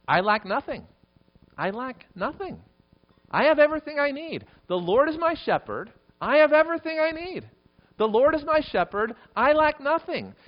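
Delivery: building to a high, loud proclamation; fervent preaching. Real, not acted. Preacher proclaims the psalm to his congregation, building to a loud cry. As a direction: declare it at full force, pitch soaring.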